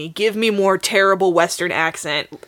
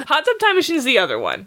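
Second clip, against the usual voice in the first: laughing; 5 semitones higher, faster than usual. Real, not acted. Laughing echo of partner.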